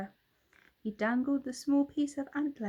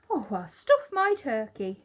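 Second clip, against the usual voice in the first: jolly hushed; 8 dB louder than usual. A narrator's reading. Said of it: "in a jolly hushed voice".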